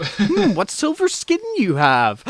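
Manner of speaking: high, slow mock fairy-tale voice; hammed-up storybook wolf, drawn out; big bad wolf. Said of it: "he's like the fucking big, ba-, big bad wolf".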